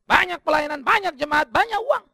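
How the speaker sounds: loud, high ironic list climbing to uang; ironic build-up. Acted. Pastor mocking today's money-rich ministry, ironic and loud.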